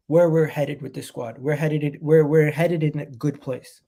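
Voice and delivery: stuffy sick-day nose; nasally voice. Real, not acted. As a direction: talk through a blocked nose. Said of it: "Sorry about the nasally voice".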